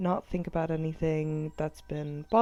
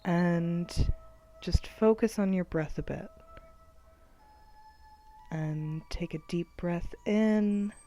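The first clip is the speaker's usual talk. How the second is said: unhurried guidance with long pauses; guided meditation; 4 dB quieter than usual. Acted. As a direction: lead them gently through each breath. Leads guided breathing meditation.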